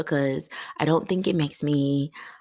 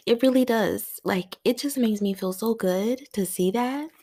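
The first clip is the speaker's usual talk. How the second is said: high, choked-up sincerity; real tears pulling the voice up; crying; 6 semitones higher than usual. Real, not acted. Host insisting to listeners how good it feels, crying. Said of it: "I was not expecting to cry".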